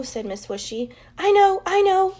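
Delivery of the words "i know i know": high, loud eager shout; excited yell. A narrator's reading. Girl shouting to teacher, excited high yell. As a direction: blurt it out, bursting to answer. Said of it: "Chloe yelled".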